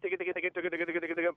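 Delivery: quick rhythmic clucking duck chatter; imitated duck feeding chuckle. Shown as a demonstration. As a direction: mouth a duck's feeding chuckle. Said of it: "a lot of feeding chuckle".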